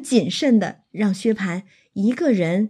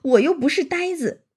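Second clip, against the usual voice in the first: higher-pitched, lightly voiced smiling protest; eager smiling protest; 5 semitones higher than usual. A narrator's reading. Xue Pan assuring Xianglian he is no fool, eager smiling protest. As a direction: protest with a quick smile, pitched up. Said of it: "薛蟠忙就笑道".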